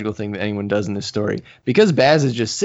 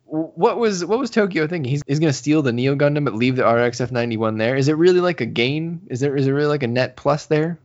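incredulous; 3 semitones higher than usual. Real, not acted. Incredulous rant about Tokyo.

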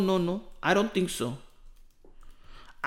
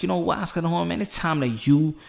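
building to a fired-up call; 2 semitones higher than usual. Retold or imitated. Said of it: "and I'm like".

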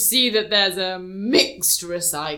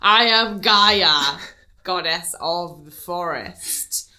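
booming goddess voice; 4 dB louder, slower than usual. Pretend.

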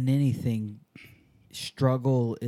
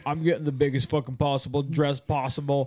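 cocky bragging jumper. Retold or imitated. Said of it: "I see people regularly go like".

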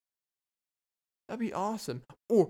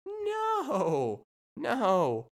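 mock outrage; 9 semitones higher than usual. Real, not acted. Outraged at idea theft.

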